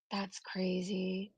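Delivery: hushed, breathless whisper; barely voiced, shocked under the breath. Real, not acted. Reacting to the shadow comment in a whisper.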